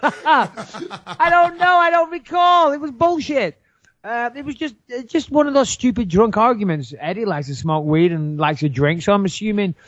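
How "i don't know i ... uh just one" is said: high, helpless laughing admission; words squeezed out high through laughs; laughing confession. Real, not acted. Confesses he was drunk, laughing.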